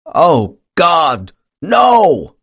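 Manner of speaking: sudden terrified cry, high and loud; horrified shout. A narrator's reading. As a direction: cry out in horror at what you see. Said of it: "with a loud, horrified exclamation".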